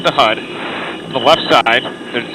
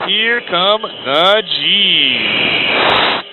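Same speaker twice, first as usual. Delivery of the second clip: strained and drawn out under g-load; under heavy g force; 3 semitones higher, much slower than usual. Real, not acted. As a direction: push the words out against crushing g's. Pilot starts high-g turn.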